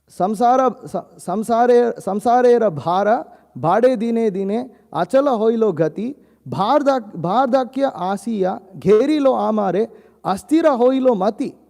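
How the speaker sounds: verse recitation. Acted. Devotional teacher intones the verse for the class, chanted.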